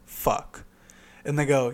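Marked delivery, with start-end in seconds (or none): 0.1-0.6 soft, voiceless curse; under the breath. Retold or imitated. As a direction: swear quietly to yourself. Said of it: "under my breath saying to myself".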